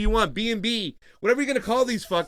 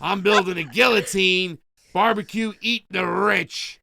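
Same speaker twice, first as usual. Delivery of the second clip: Crow voice; slower than usual. Retold or imitated. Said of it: "That was a really good impression of Crow".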